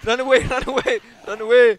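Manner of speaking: laughing while calling out. Real, not acted. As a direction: call out through a laugh.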